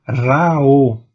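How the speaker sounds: "Ra, o" sounded as one continuous glide; adjoining vowels linked. Shown as a demonstration. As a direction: run the "a" of "Ra" into "o". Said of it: "duas vogais em sequência".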